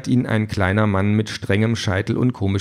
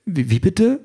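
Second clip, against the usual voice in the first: high, shocked "bitte" rising; jolted by the android's threat; startled question; 10 semitones higher than usual. A narrator's reading. Sandra, alarmed by the android's plan, asks in shock. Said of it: "fragt Sandra erschrocken".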